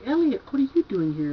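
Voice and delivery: high, loud mock outburst from a mother; hammed-up B-movie mom imitation; ridiculous bad-movie mother. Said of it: "more ridiculous acting".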